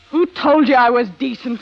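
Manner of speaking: defiant loud question; bitter outburst. Acted. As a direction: throw it in his face. Bitter confession begins.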